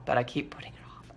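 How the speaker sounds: whispered confession to herself; sheepish whisper. Real, not acted. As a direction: breathe it out as a guilty aside. Sheepish aside to viewers.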